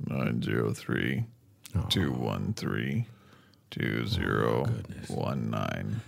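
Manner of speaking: slow squeaky voice; squeaky cartoon voice reading numbers slowly. Shown as a demonstration. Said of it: "how it sounds in a much squeakier voice".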